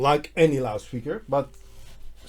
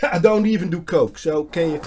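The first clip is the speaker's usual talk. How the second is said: laughing; 5 semitones higher, 9 dB louder than usual. Real, not acted. Laughing at his own joke.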